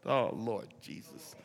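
awed preacher's barely audible cry to Jesus; hushed prayer. Real, not acted. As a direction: sink into a whispered-low prayer. Overwhelmed preacher breaks off.

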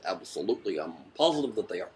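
lightly voiced politician impression; Barack Obama. Candidate assuring a reporter about America, light Obama impression. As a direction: give a hint of the candidate's voice. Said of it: "It's Barack Obama voice".

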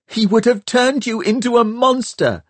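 high, building shout; boy yelling back at the girl he is trying to save; rising to a shout. A narrator's reading. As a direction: let pain flare into anger. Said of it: "his own voice rising to a shout".

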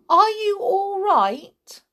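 high, polite question; polite concern. A narrator's reading. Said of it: "George asked her politely".

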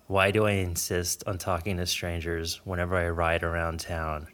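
low, measured reading voice, softening at line ends; literary reading aloud. Acted. Reads a passage aloud from book.

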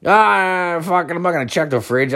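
hammed-up high moan; mock drunken whine. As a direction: groan it out high, then rush on. Acts out his hungover self groaning.

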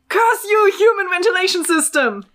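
muffled shout from above; cursing through the ceiling. Acted. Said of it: "Came a muffled voice".

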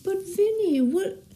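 halting attempt at a Brooklyn accent; slow, unsure Brooklyn movie accent; Marissa Tomei. Shown as a demonstration. Friend mimicking a film for the host, shaky Brooklyn accent. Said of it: "I'll try to be like Marissa Tomei".

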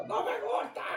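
high, eerie whispered hiss; demon whisper. Retold or imitated. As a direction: breathe it like something inhuman. Demon quote, whispered rasp.

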